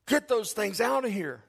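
a touch of sudden revulsion; snapping pregnant wife. Retold or imitated. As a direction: mimic a wife ordering it away. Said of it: "all of a sudden she looks at me".

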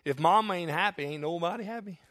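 lightly voiced comedian, low and dropping off; comedian's punchline. Pastor quoting a comedian to the church, light comic punchline. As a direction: deliver it like a stand-up punchline, barely changed. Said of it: "let me say it like one comedian says it".

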